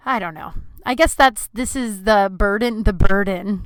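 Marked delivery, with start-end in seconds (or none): 1.5-3.6 slow, self-mocking grand lament; a touch of melodrama; mock dramatic. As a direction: ham up the weight of it lightly. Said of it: "so dramatic".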